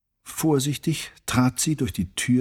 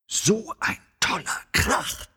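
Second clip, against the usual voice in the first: high, airy delighted cry; excited exclamation; 10 semitones higher than usual. A narrator's reading. Carla delighted by the cello's crash, excited exclamation. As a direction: exclaim it high, thrilled by the racket. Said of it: "rief Carla".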